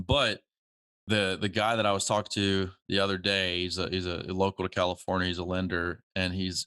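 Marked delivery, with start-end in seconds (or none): none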